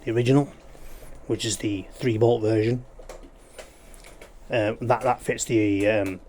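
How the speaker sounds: talking while crunching chips; chewing crisps mid-sentence. Real, not acted. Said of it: "Sorry about the crunching".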